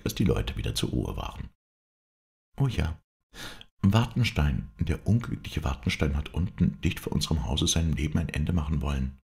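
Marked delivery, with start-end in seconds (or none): 2.6-9.2 wife breaking terrible news, slightly raised voice; mildly agitated wife; lightly voiced distressed wife.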